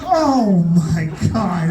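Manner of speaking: slow "Oh my God" through laughter; helpless laughing disbelief; laughing groan. Retold or imitated. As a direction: drag it out while cracking up. Reacting to Flex Seal story.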